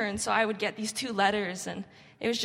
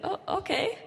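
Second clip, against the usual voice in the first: much higher, amused giving in with a laugh; laughing along; 11 semitones higher than usual. Retold or imitated. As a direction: chuckle and go along with it. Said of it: "I'd be like".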